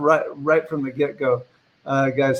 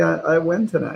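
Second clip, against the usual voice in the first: ordinary talk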